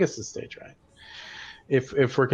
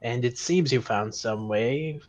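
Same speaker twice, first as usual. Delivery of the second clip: spidery whisper voice; 2 semitones higher, slower than usual. Acted. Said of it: "generic spidery whisper voice".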